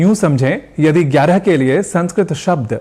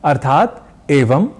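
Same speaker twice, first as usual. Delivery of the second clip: slow demonstration; slower than usual. Shown as a demonstration. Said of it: "Hindi में इसका अर्थ है".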